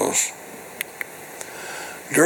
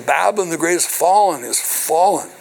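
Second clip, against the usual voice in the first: raised, higher preaching cry; mighty strong voice; 4 semitones higher than usual. Retold or imitated. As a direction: proclaim it mightily, pitch lifted. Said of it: "He cried mighty with a strong voice".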